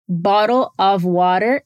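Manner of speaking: slow American "bottle of water", t's flapped. Shown as a demonstration. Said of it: "ele quase soa como um D".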